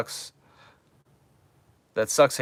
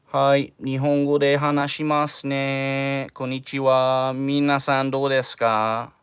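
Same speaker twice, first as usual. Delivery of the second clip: slightly raised, drawn-out put-on Japanese voice; weird Japanese voice; 3 semitones higher, slower than usual. Shown as a demonstration. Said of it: "Should I still do the, the weird voice?".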